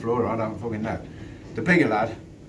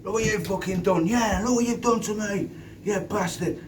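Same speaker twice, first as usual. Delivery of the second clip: higher, put-on whine of a beaten lad; mock whiny lad; 7 semitones higher than usual. Beaten lad complaining to the speaker about his eye, mock high whine. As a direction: whinge it like he's the victim. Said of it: "One of 'em said".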